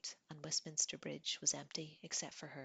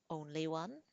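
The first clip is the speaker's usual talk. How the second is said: proud. Acted. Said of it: "he said proudly".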